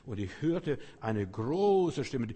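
loud, very slow proclamation; proclaiming scripture. Acted. Preacher proclaims the verse to the congregation, loud and slow. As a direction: announce the great voice, booming.

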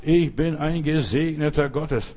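langsames, abgesetztes Bekenntnis; Schritt für Schritt. Shown as a demonstration. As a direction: sprich es langsam, Wort für Wort wie im Gehtakt. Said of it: "reh jeden Schritt, den du machst". (langsam und nachdrücklich skandiert)

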